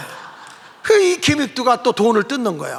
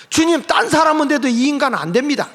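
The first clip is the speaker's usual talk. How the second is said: protest to God; 5 semitones higher than usual. Retold or imitated. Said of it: "하고 돌아가려고 하는데".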